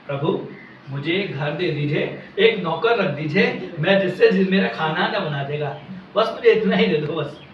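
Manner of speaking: low, soft imagined petition; humble plea. Acted. Beggar asking the Lord for small favours, humble plea. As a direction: ask meekly, voice dropped low.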